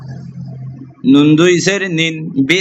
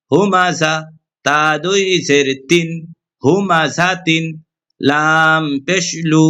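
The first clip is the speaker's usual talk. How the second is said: Quran spelling drill. Shown as a demonstration. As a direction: spell out each syllable for students like a recitation lesson. Teacher chants Quran spelling drill. (কুরআন শিক্ষার সুরেলা বানান পাঠ)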